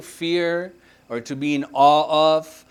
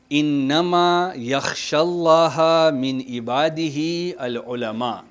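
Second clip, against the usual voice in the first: Quran recitation; 3 dB louder, much faster than usual. Acted. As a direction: recite the verse in a chant. Recites the verse being taught.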